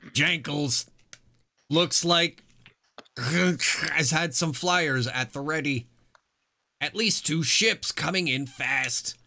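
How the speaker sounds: poorly done robot voice. Acted. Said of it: "imagine robot voice for this".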